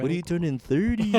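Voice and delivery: mock Hispanic accent; lightly put-on Hispanic accent. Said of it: "They all ask in a Hispanic accent".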